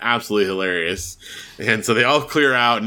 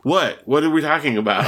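lightly imitated bewilderment, pitched higher; quick, higher, puzzled little question; clueless; 4 semitones higher than usual. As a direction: play a kid who has lost the thread. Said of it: "He has no idea".

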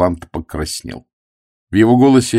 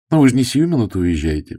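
put-on higher, pleading young woman; girl imploring him to stay; 5 semitones higher than usual. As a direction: beg him not to leave. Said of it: "взмолилась Флора".

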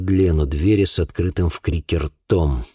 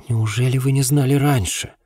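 higher-pitched, incredulous question; astonished; 7 semitones higher than usual. A narrator's reading. Girl amazed the policeman had not known, incredulous. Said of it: "изумлённо покачала головой Рэйчел".

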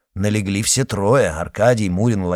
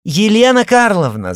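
much higher, louder, sugary call; loud, mock-sweet; 12 semitones higher, 8 dB louder than usual. A narrator's reading. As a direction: call her name with put-on sweetness. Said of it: "громко и нарочито ласково".

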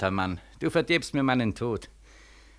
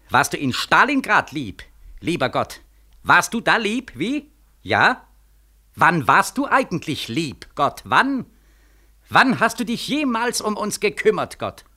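higher, pressing accusation; rising bitter accusation; 5 semitones higher than usual. Acted. Beckmann demanding where God was, rising bitterly. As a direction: build it into a demanding cry.

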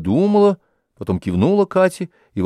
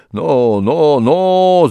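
higher, louder warning; thundering; 5 semitones higher, 5 dB louder, much slower than usual. A narrator's reading. Zakhar raises his elbow at Anisya, thundering warning. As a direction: threaten her off with a booming "no". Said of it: "загремел он".

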